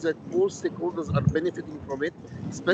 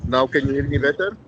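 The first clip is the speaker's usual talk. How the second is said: louder, speaking up into the phone; pushing the voice louder to be heard; raised voice; 6 dB louder than usual. Real, not acted. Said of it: "Could you raise your voice a little bit?".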